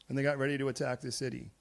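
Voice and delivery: ordinary talk, nothing marked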